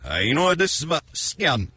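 reversed song clip; a band's song run backwards; backwards speech. Shown as a demonstration. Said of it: "One more time".

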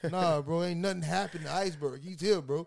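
shutting down talk that Iceberg is gone; loud insistence. Real, not acted. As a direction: insist hard that he's still here. Insisting nothing happened to Iceberg.

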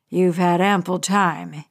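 a hint of a patient, threatening hijacker; menacing hijacker. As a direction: hijacker taunting a father over camera, low and cold. Hijacker Bradley addresses Weston.

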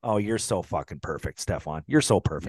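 dry sarcasm toward Diggs; sarcastic. Real, not acted.

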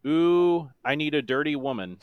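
flat spoken lyric, deadpan ooh; monotone voice. Shown as a demonstration. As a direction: read the line dead flat. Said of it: "in my best monotone voice".

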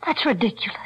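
breathless shocked whisper; hushed shocked denial. Acted. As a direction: whisper it in disbelief. Shocked girlfriend.

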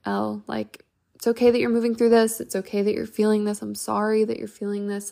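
gentle self-talk. Retold or imitated. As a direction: reassure yourself like a kind mother. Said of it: "just be like".

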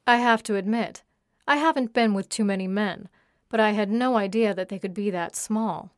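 mild teasing mockery; mocking. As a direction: sneer at him lightly. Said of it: "mocked Carrie".

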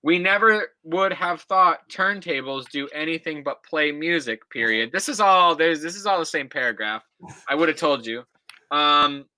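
put-on reading an old essay aloud, punctuation and all; dictating. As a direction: read it out like dictation, calling each comma. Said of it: "I'm telling you the punctuation".

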